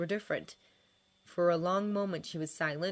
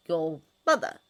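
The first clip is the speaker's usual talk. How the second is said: puzzled, rising echo; baffled question; confused; 6 dB louder than usual. A narrator's reading. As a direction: repeat it in confusion. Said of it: "he repeated, confused".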